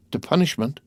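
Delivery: the word leaps up high in shock; horrified exclamation. A narrator's reading. Wife hearing of her punishment, high shocked exclamation. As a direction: recoil at the word. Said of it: "exclaimed Madame de Villefort".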